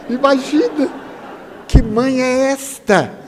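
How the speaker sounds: amused laughing aside; laughing disbelief. Real, not acted. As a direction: chuckle at the silly question. Laughs at mother's eagerness.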